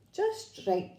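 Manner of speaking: put-on high-pitched, pleased storybook girl; pleased little exclamation. A narrator's reading. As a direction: chirp it as the perfect fit. Goldilocks quote, pleased verdict.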